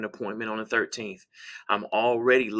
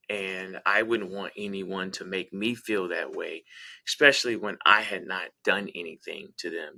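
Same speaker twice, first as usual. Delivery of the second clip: empathetic apology; 4 semitones lower than usual. Acted.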